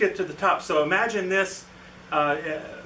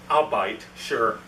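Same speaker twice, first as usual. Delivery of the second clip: low, doubtful agreement; skeptical; 5 semitones lower, much slower than usual. Retold or imitated. HR director humouring a colleague's odd story, skeptical. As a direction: agree reluctantly, pitched down. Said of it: "She's very skeptical of me".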